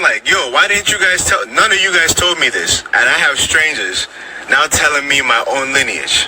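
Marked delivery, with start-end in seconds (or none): 0.3-2.8 higher, indignant complaint to the family; half-joking outrage at being kept in the dark; pitched-up retold frustration; mock exasperated. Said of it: "So I'm just mad".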